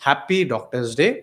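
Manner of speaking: happy Doctor's Day, stretched slowly; drawn-out wishes. Real, not acted. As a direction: draw out the greeting warmly. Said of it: "Once again, a very, very". (धीरे खींचकर शुभकामना)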